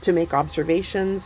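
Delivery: talking over a blender. Real, not acted. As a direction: blender whirring under the voice. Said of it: "Sorry about the blender in the background".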